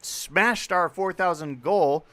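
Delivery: slow, emphatic hype; excited announcement. Real, not acted. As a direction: draw out each word proudly. Goal reached announcement.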